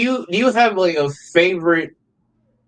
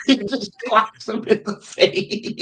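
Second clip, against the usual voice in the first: high-pitched, laughing through the words; helpless real laughter on a higher pitch; cracking up; 6 semitones higher, slower than usual. Real, not acted. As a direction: burst out laughing while recalling a gag. Cracking up recalling a gag.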